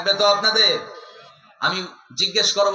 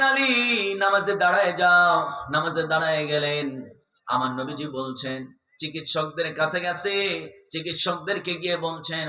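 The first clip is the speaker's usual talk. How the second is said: melodic sermon storytelling; 2 semitones lower than usual. Acted. Preacher tells the congregation of Ali and the arrow, melodic chanting.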